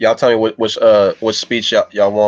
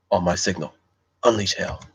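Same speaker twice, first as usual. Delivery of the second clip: lightly voiced general, quieter and controlled; Gladiator's Maximus; 2 semitones lower, 7 dB quieter than usual. Streamer quoting Maximus from Gladiator for viewers, lightly voiced commander. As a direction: give a softer, restrained battle command. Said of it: "Let's go with, uh, Gladiator".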